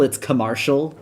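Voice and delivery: commercial with an odd vowel; own way of saying commercial. Shown as a demonstration. Explaining her odd pronunciation, commercial said oddly. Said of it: "instead of commercial".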